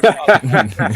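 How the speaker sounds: low, loud, exaggerated apology; mock solemn apology. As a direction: ham up a deep, grave sorry. Mock grave repeated apology.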